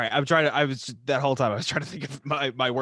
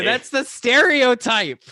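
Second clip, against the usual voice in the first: mock French accent; 10 semitones higher, 8 dB louder, slower than usual. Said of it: "choking on a croissant".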